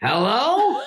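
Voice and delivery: high put-on hello; Norm Macdonald. Comedian texting at three in the morning, imitated greeting. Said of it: "He just goes".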